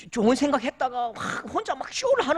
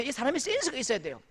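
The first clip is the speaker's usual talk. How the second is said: ordinary talk, nothing marked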